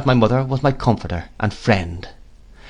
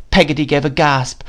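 plain reading voice

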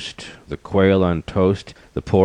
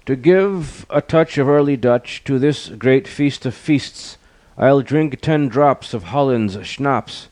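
raised, declaiming lion king; king of beasts; 7 semitones higher than usual. A narrator's reading. Lion toasting the great feast, high declaiming voice. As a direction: speak out high and grandly. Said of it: "spoke out the king of beasts".

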